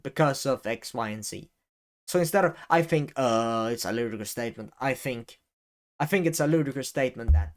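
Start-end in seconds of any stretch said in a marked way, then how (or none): 6.0-7.5 quick, run-together read with no pauses; rushed take. Shown as a demonstration. Teaching how not to rush, speaking quickly. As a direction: rush it straight through. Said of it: "you might speak too quickly".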